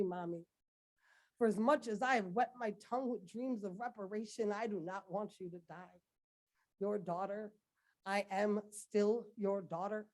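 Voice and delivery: intense, rhythmic poetry slam delivery; rising anguished spoken word, building in force; spoken word poem. Acted. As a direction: perform it like a slam poem to your country.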